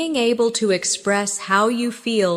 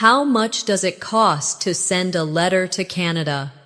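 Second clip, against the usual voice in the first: slower, measured model question; slow practice take. Shown as a demonstration. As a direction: ask it slowly so learners can repeat. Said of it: "Say it again slowly".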